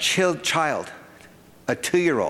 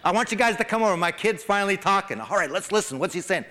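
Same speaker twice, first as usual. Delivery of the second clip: high, laughing, proud parent showing off; giddy parent showing off the baby; a parent calling friends over to hear the baby, high and laughing; excited proud parent; 8 semitones higher, faster than usual. Pretend. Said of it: "You drag him over here".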